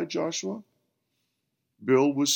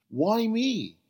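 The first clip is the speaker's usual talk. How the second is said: much higher, disbelieving; incredulous; 12 semitones higher, 3 dB louder than usual. Acted. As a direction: ask it in disbelief. Bill's incredulous question.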